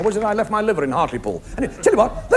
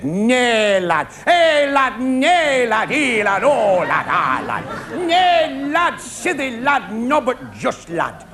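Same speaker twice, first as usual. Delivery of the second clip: Yorkshire dad; much slower than usual. Retold or imitated. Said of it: "he looked at me and said".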